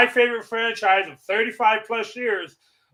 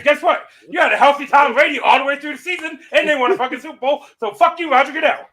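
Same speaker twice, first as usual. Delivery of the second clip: raised, heated rant; 5 semitones higher than usual. Real, not acted. Ranting at NFL commissioner.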